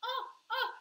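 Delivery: small high gasps of worry; mock distressed "oh". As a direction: act out the first twinge of upset, high. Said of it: "you go a wee bit like".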